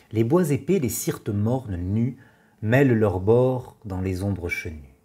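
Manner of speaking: measured poem reading with pauses between lines; poetry recitation. Acted. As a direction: recite the verse evenly, letting each line settle. Reads Chateaubriand's poem aloud.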